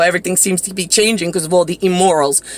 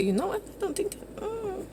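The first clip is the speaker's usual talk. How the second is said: imitating Mariah; 12 semitones higher, 15 dB quieter than usual. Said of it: "she would sit at the kitchen table and say".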